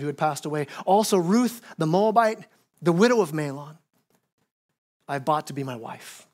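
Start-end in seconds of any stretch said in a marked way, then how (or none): 5.1-6.3 savoring quote. Shown as a demonstration. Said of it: "I love how that says that".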